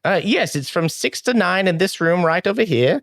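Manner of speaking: high-pitched halfling innkeeper; Sylveth. Acted. Halfling innkeeper welcoming a guest to the inn, high put-on voice. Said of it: "what does Sylveth sound like".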